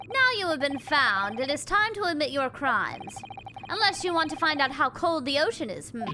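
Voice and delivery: a hint of a stern interrogator; lightly voiced stern captor. Captor scolding the prisoner from the wardrobe, mildly stern.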